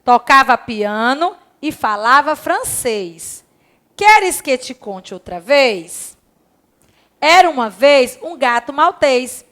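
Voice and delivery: put-on slow, sing-song children's rhyme reading. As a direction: read it slowly to little pupils. Reads the rhyme to class.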